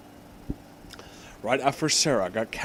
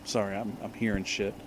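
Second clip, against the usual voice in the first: muttered aside; 6 semitones lower, 11 dB quieter, faster than usual. Real, not acted. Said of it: "quiet aside".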